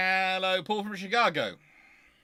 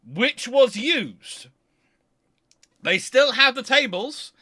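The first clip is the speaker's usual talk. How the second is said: higher and louder, bubbling with enthusiasm; excited; 9 semitones higher, 9 dB louder than usual. Real, not acted. Telling viewers about the 1797 pub tables, excited. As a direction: sell it like a real treasure you've found.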